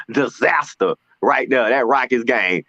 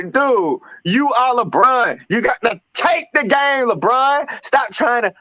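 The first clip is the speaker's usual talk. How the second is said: exasperated rant; 5 semitones higher than usual. Retold or imitated. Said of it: "'Cause he's sitting there trying to".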